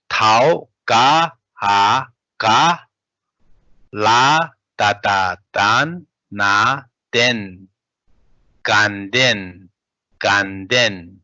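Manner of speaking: syllable by syllable spell-out, each letter called firmly; teacher spelling the word out for students; spelling drill. Shown as a demonstration. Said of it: "prefix ta and ka as, uh, s-, uh, root letter".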